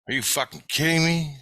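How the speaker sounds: high-pitched retold disbelief; incredulous. Dreamer answering the guide about that dream, incredulous. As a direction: throw it back in amazed disbelief.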